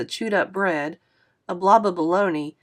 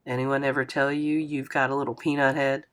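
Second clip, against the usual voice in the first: put-on a touch lower, friendly older man apologizing; lightly voiced kindly driver, a bit lower; 5 semitones lower, 4 dB quieter than usual. Narrator voices Mister Lewis.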